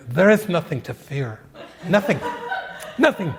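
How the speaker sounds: mock guru line broken by laughter; a hint of Krishnamurti, laughing through it. Voicing Krishnamurti in your mind, chuckling. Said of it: "Krishnamurti's in there".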